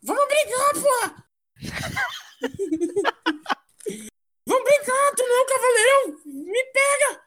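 high, taunting goblin. Acted. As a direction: taunt him like a scrappy goblin. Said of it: "voz de Goblin". (voz de goblin provocadora)

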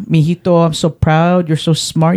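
lightly exaggerated Hispanic-accented mother; mom's put-on accent. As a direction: imitate a proud mom with a Hispanic accent. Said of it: "my mom doesn't have an accent".

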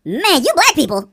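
loud, high, drawn-out mock remark; mock blurting. Host acts out what nobody would dare say, mock blurting. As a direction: blurt it high and slow, exaggerated. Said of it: "you're not gonna say".

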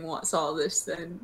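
slow, lightly put-on British "What's all this then?"; a hint of a stuffy English bobby; mock British accent. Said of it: "British people really went off by asking".

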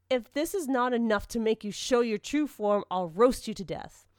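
forceful, menacing threat; angry threat. Acted. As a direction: threaten the prisoner, starting strong and dropping in pitch. Torturer threatens the girl.

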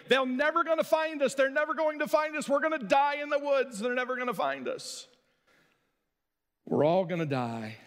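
put-on high, frantic wailing lost girls; mock panicked wail; panicked crying girls. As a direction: cry out like scared lost kids.

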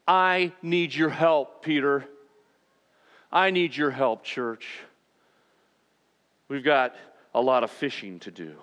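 mean every word of the request; sincere plea. Acted. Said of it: "it's genuine".

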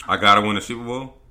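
loud disbelieving echo; incredulous. Real, not acted. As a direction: shout it back in disbelief. Incredulous repeat of quote.

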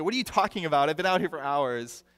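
quip back at dad, mildly exasperated; mock angry retort. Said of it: "he screamed back at him, so mad, so angry".

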